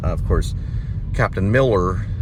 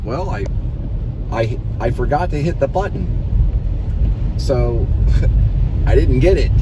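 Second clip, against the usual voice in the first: higher, laughing Lynch voice; imitating David Lynch; 6 semitones higher, 3 dB louder than usual. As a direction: lightly put on an odd director's voice. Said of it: "He's like".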